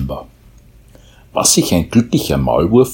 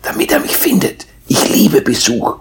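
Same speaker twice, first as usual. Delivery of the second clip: happy mole; 11 semitones higher than usual. A narrator's reading. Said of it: "schnüffelte er fröhlich".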